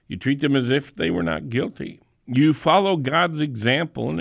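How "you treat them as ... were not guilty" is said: fast, brisk repeat; quick restatement. Shown as a demonstration. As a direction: rattle it off quickly.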